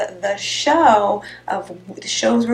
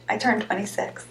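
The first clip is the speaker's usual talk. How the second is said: mock secret whisper; 7 dB quieter than usual. Joking about own age.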